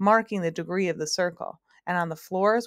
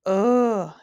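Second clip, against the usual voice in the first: gasp; 3 semitones higher, 7 dB louder than usual. Acted. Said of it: "gasped the bug".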